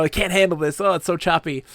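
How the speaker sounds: lightly hammed-up, can't-cope moaning; mock seasick distress. Seasick player on stormy boat, mock distress.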